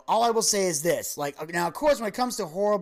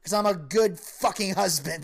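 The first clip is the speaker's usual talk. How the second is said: emphatic punchline; 5 semitones higher than usual. Retold or imitated. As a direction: deliver the closer with mock indignation. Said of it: "Tom Arnold said".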